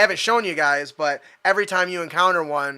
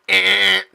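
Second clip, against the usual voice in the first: loud rejecting buzz; door buzzer beep; 4 semitones higher, 9 dB louder than usual. Retold or imitated. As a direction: imitate a denied-access buzzer. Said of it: "You run to another one".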